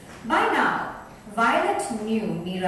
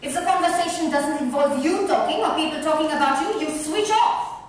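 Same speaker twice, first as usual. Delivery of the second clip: angry accusation; 5 semitones higher than usual. Acted. Friends quarrel, Violet accuses.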